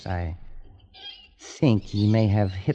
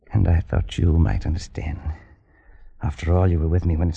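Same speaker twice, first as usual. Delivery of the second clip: hushed aside; 5 semitones lower than usual. Acted. Hurt aside to friend.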